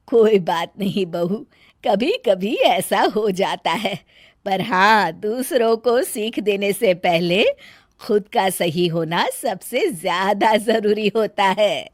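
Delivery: mother-in-law teaching her bahu a lesson; calm mother-in-law rebuke. Acted. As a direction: set the bahu right without raising your voice.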